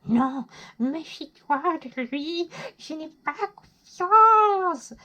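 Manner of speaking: high, slow, hammed-up warning voice; exaggerated mistrust, drawn out and climbing; distrustful inner voice. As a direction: play a wary inner voice, dragging out the words and rising loud at the end. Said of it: "celle qui vous dit".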